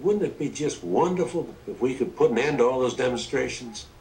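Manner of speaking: a hint of Johnson laying on the charm; lightly voiced Johnson. Johnson voiced persuading Wallace.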